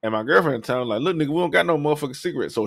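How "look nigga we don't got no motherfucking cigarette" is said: fast, rough dismissal; fed-up snap. Retold or imitated. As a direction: shut the stranger down fast. Girlfriend snapping at stranger.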